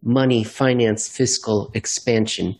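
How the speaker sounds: slow, spaced-out words; slow demonstration, word by word; said really slow. Shown as a demonstration. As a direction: draw each word out deliberately. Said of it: "if you say it really slow".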